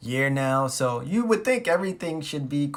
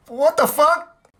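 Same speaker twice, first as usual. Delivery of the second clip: high, loud, drawn-out incredulity; stunned disbelief; 10 semitones higher, 6 dB louder, much slower than usual. Retold or imitated. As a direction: stretch it out, utterly floored. Disbelief at cheating news.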